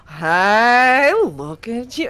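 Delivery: loud, high, tipsy hello; tipsy friend gushing over the dressed-up groom; drunk excited greeting. Acted. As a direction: cheer him on, a little drunk. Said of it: "he's like".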